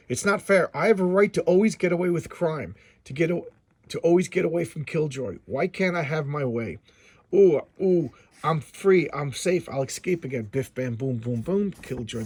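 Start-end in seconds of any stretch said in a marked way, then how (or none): 0.1-10.4 whiny crook. Acted. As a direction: whine like a sore loser. Voicing Snake whining.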